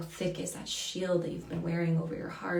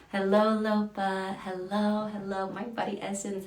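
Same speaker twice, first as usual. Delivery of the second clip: sing-song greeting; 3 semitones higher than usual. Real, not acted. Greets a viewer in live chat.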